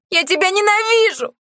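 high, yelled outburst; shouting out. A narrator's reading. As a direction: daughter screaming hatred at her father. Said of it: "выкрикнула Лена".

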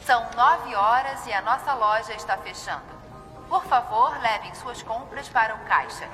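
PA announcement. Acted. Store closing announcement over speakers.

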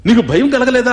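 loud, high challenge from a robber; threatening hunter. Retold or imitated. Robber demanding why the sage feels no fear, loud and high. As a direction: bark it at the sage to scare him.

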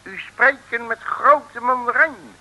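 langzaam en hoger, nadruk op mandarijn; plechtige mandarijn. Acted. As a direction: traag en gewichtig, als een mandarijn. Nep-mandarijn stelt zich voor.

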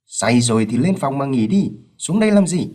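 sharp rising rebuke at the end; irritated scolding. Acted. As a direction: snap at the drunk son. Father scolds drunk son. (bực bội quát con)

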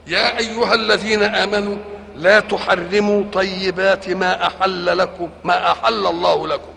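measured chanted recitation of the verse; Quran recitation. Acted. Sheikh reciting the verse to his listeners, chanted. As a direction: intone it like tajweed.

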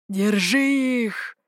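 shouted order. A narrator's reading. Warrior shouting to seize the fleeing pair. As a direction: bark the order to catch them. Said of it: "закричал один".

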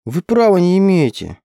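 a high, indignant little squeal; squeaky protest. A narrator's reading. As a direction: squeak it out in outrage. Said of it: "пропищала я".

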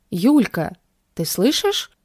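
calling out loudly across the room. A narrator's reading. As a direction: call her name out sharply. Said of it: "громко окрикнули".

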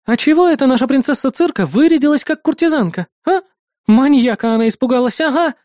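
high, sarcastic nosy neighbour; mocking neighbour. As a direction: sneer at the princess.

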